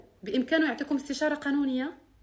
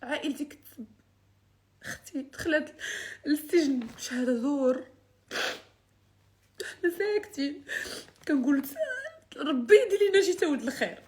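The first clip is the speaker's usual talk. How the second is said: tearful; 3 semitones higher than usual. Real, not acted. Crying over sister jailed.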